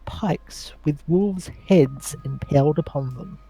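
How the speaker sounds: slow storyteller scene setting; scene narration. Acted. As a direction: set the scene, dark and slow.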